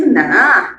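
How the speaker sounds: "nã" as a dipping, drawn-out denial without the final glide; Maranhão "nã". Acted. Joke's Maranhense answers the teasing, regional "nã" pronunciation. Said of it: "Aí o outro responde".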